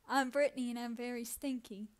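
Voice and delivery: same line mirrored in an American accent; imitated American accent. Shown as a demonstration. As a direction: copy the American speaker's accent exactly. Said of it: "I'll repeat it, and you can try and tell the difference".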